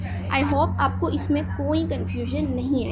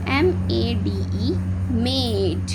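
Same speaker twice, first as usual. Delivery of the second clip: slow letters, then मेड with a long a; slow phonics spelling; 3 semitones lower, much slower than usual. Shown as a demonstration. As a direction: spell it slowly, land on मेड. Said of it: "तो हम कैसे पढ़ेंगे".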